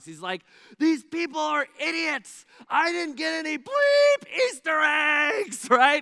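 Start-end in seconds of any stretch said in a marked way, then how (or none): 0.8-5.7 top-of-the-lungs shrill, booming furious yell. Retelling how a young man at an egg hunt yelled: imitating someone yelling at top of lungs. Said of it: "he just yells at the top of his lungs".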